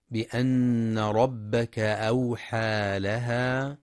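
very slow tajweed chant; Quran recitation. Acted. Teacher reciting the revelation verse. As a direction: draw the words out slowly.

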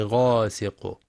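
"غاسق" with thick ghayn and dark long a; heavy ghayn. Shown as a demonstration. Teacher modelling correct letters, "غاسق" with heavy ghayn. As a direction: say "غاسق" with full tafkhim. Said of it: "الحذر من ترقيق الغين".

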